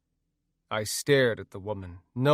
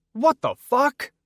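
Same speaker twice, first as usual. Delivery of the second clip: shocked shout; 13 semitones higher, 7 dB louder than usual. Acted. Being pissed on, outraged.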